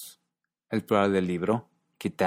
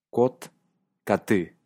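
Kot, then kate stressed on the final syllable, kaTE; careful teaching of Kot against kaTE; stress shift. Shown as a demonstration. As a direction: demo kate with the weight moved to the end. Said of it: "Volvamos a escuchar".

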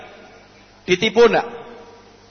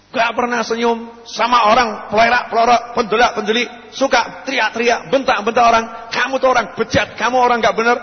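higher-pitched mock tirade, relentless; abusive scolding; 5 semitones higher than usual. Preacher acting a person reviling someone before everyone, scolding. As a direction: pile up the insults as an act. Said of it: "pakai kata-kata kasar".

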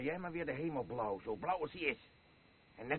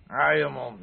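much louder furious snap; angry shout; 11 dB louder than usual. Acted. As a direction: shut her up hard. Tells mother to shut up.

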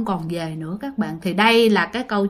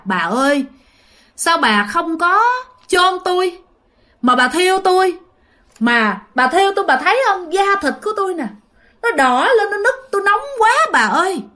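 high, wailing voice of a burning ghost; ghost's plea; 8 semitones higher than usual. Retold or imitated. Dead father begging his wife in a dream, high wailing. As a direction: plead like a dead man in pain, pitched high. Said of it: "ba của bạn nói với mẹ rằng á là".

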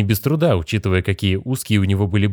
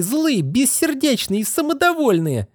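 higher and slow, each word hurled; angry spat list; slower than usual. Acted. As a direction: spit the insults one by one. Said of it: "Да у вас истерика".

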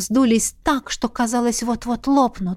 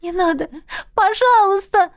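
much higher, pleading; sobbing plea; 9 semitones higher than usual. A narrator's reading. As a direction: beg through a sob. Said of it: "всхлипнула я".

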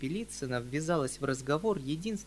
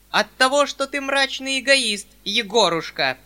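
much higher, very loud rebuke; loud heated rebuke, much higher; growing heat; 10 semitones higher, 12 dB louder than usual. Acted. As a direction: hammer the accusation home. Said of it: "всё более одушевляясь".

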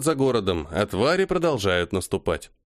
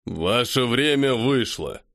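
slow, heavy ruling voice; commanding leader voice; slower than usual. Acted. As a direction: end the debate with authority. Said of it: "раздался голос варвара".

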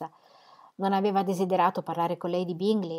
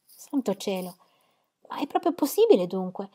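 exclaiming. Acted. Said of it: "esclamò Jane".

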